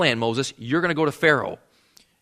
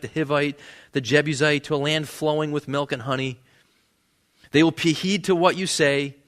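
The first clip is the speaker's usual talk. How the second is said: scripture reading. Acted.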